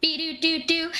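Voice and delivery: high, sing-song machine beeps; imitated beeping. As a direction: voice a little computer doing its work.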